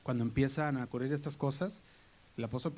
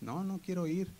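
put-on reluctant teen; 6 semitones higher than usual. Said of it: "hay tiempo en que tú dices".

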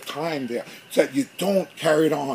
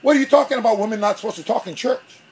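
frustrated; 3 semitones higher, faster than usual. Retold or imitated. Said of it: "I got frustrated".

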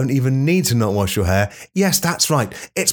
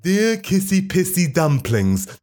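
high, slow, sugary mock greeting; mock sweet diary greeting, slow and higher; silly; 5 semitones higher, slower than usual. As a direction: coo it like a soppy love letter. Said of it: "No, I'm being silly now".

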